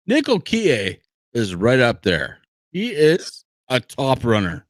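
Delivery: talking through hiccups; speaking between hiccups. Real, not acted. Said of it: "I have the hiccups".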